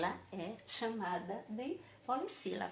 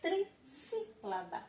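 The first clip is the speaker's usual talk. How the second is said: slow, higher trissílaba; 6 semitones higher, slower than usual. Shown as a demonstration. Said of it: "Então".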